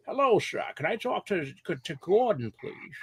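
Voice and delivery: mock polite caller asking for Gordon; high put-on phone voice. Prank phone voice to coworker.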